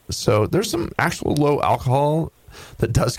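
usual speaking voice

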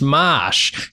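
"mosh" drawn out slowly with a broad Boston "o". Shown as a demonstration. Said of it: "one word which you have to say with a Boston accent".

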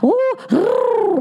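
mock Irish with rolled R's; high, exaggerated Irish trill; hacky Irish accent. Shown as a demonstration. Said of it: "there's a lot of rolling of R's".

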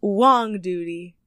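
Wong Duty said slowly at normal pitch; slow announcement. Real, not acted. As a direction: present the name slowly and deliberately. Announces favourite business name.

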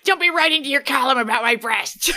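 loud angry outburst; angry shout. Retold or imitated. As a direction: yell it at your sister. Piper angry about column.

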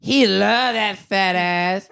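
slow deadpan bit imitating a rapper; slow, deadpan, with a laugh breaking through; straight-faced rapper line. Pretend. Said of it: "do it with a straight face".

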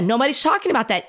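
fast, exasperated repeat. Real, not acted. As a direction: rush it out in frustration.

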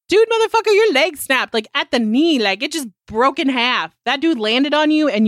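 high, incredulous rant at a friend; exasperated outburst. Retold or imitated. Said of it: "And I'm like".

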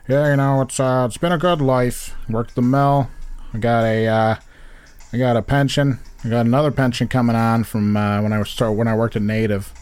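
lightly voiced Glens Falls retiree accent; a hint of a laid-back Glens Falls mill worker; Glens Falls local. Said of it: "you're like".

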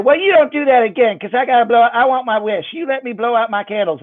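put-on high scolding little-girl voice; a kid laying down the law; bossy child. Sarah scolds the magician.

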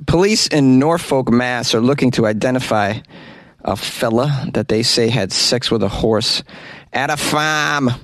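put-on lightly done Boston accent. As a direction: read the news in Boston accent. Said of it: "do this for the Boston accent".

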